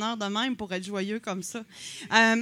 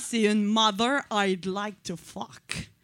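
put-on English accent; 2 semitones lower, slower than usual. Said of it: "Il a un bel accent".

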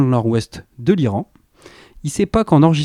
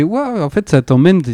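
impressed wow; 6 semitones higher than usual. Retold or imitated. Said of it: "j'ai fait".

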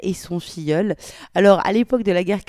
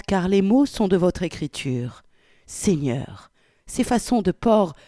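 put-on expressive reading of an old letter; dramatic reading aloud; story narration. A narrator's reading. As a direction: voice a prim, flustered wartime godmother.

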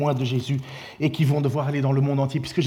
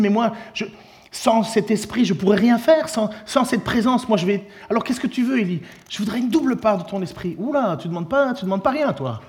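higher, pleading Elisha voice; voicing Elisha; 6 semitones higher than usual. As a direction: plead like a disciple asking a favour. Preacher voices Elisha and Elijah.

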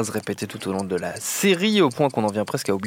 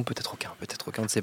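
mock whisper; 2 semitones lower, 13 dB quieter, faster than usual. Animateur chuchote le suspense.

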